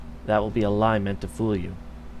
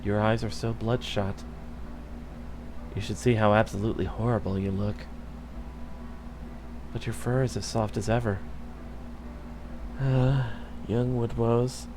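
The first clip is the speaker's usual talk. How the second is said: tender murmur; 6 dB quieter than usual. Acted. Dying queen speaking tenderly.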